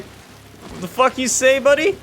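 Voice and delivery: high, slow, mock-menacing challenge; hammed-up tough-guy comeback. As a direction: voice the boss picking a fight. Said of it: "he's like".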